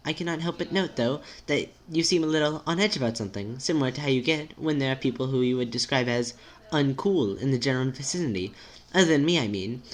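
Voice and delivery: careful, precise friend with a swooping tune; timid, formal friend. Acted. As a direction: reason it out politely and tentatively.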